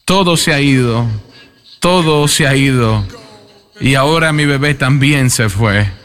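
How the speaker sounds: sobbing plea to God, only lightly played; retold grieving cry. Grieving father cries to God over his son's coffin, mildly tearful. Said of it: "llorando, llorando, llorando".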